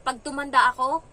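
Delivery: loud mimicked child's threat; imitated miffed child. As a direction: act out a kid's vow of revenge. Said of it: "napikon talaga siya guys". (ginagayang pagbabanta ng bata)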